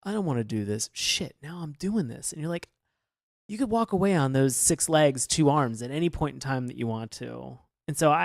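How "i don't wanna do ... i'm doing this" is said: lightly voiced grumble; reluctant, half-hearted moan; complaining. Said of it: "as him complaining".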